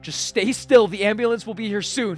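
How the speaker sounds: high, loud, urgent instructions; slight panic. Acted. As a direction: order them to hold still, alarmed. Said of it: "he says with a slight panic in his voice".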